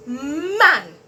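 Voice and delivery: man said fast in one go; man said quickly as one word. Shown as a demonstration. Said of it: "so you say it fast".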